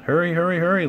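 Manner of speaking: high, loud gleeful goading; mock laughing urging. A narrator's reading. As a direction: goad the one behind, without real laughter. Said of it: "laughed Gordon in the front".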